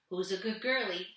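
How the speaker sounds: lightly voiced doting dad; a hint of dad cooing at the dog; dad's voice. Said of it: "I said in my dad's voice".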